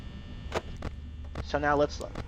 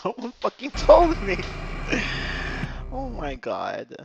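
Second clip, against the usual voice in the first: rueful laughter; 3 semitones higher than usual. Real, not acted. Laughing at himself.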